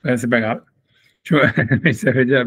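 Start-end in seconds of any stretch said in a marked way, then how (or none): 1.2-2.5 laughing. Real, not acted. Puzzled teacher laughs at the text.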